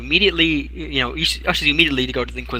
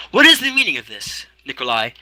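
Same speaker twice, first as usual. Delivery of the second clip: stern lord demanding. Acted. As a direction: demand answers from the accused.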